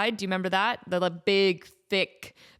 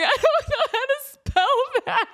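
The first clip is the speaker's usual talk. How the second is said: mock crying kid; 5 dB louder than usual. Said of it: "And I'm just crying".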